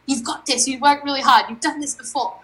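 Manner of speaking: pep talk. Retold or imitated. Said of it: "he's trying to G me up".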